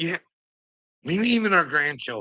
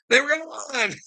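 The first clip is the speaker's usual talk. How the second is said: higher, slower, laughing it out; 12 semitones higher than usual. Real, not acted. Laughing harder to the viewer, repeating it higher. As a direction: stretch it with a giggle.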